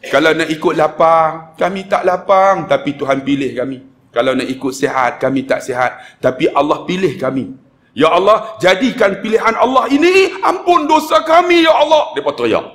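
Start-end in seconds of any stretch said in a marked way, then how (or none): 0.1-7.5 measured pleading, phrase by phrase; emotional prayer. Retold or imitated. Preacher praying for the chosen but needy pilgrims, emotional pleading. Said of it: "Saya mainkan perasaan". 7.9-12.2 prayer climbing to a high cry; emotional plea. Retold or imitated. Preacher at the climax of pilgrims' prayer, high emotional plea. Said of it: "Saya mainkan perasaan".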